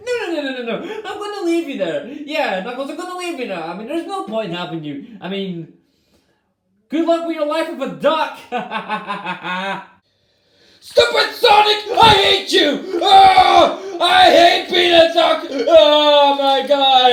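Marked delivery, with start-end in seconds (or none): 0.1-3.6 laughing refusal. Acted. 10.8-17.1 furious shout. Acted. Knuckles raging.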